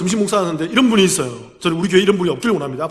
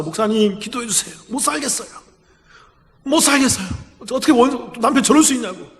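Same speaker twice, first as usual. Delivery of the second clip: higher, strained plea to the pastor; distressed pleading woman; 5 semitones higher than usual. Retold or imitated. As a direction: beg for help, barely able to say it. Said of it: "너무 힘들게 말하는 거죠".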